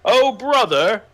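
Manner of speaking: high, prim posh voice; prissy upper-class child. Pretend. Mocking posh family titles.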